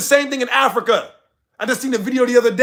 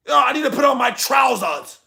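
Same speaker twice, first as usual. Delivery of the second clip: lightly mocking British accent, higher pitch; 4 semitones higher than usual. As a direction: put on a hint of a British accent. Mocks British wording in acted quote.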